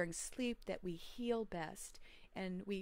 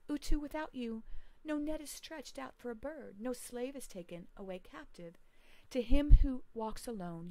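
solemn prayer reading; 4 dB louder than usual. Acted. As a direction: pray to the sun god as a lost, grieving man. Lugalbanda praises Utu.

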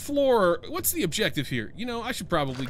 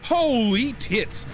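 loud alarmed outbursts; panicked yelling; 4 semitones higher, 5 dB louder, slower than usual. Real, not acted. Streamer fleeing the monster, loud panicked yelps. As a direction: panic as he turns to run.

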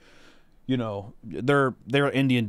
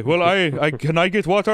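1 mocking the helper; 5 semitones higher, 5 dB louder than usual. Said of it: "Yeah, exactly".

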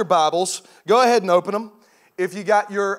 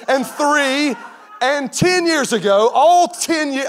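rising disbelief; 7 semitones higher, 5 dB louder, much slower than usual. Retold or imitated. Realizing anniversary mistake.

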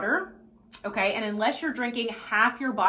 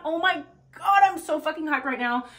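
high-pitched gushing excitement; hyped up; 5 semitones higher than usual. Shown as a demonstration. Coach modelling affirmation number three, hyped to the peak. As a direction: burst out as if bursting with energy.

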